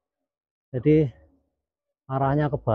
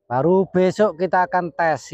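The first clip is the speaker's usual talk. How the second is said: shouting over wind; 5 semitones higher than usual. Real, not acted. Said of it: "Ini anginnya gila juga".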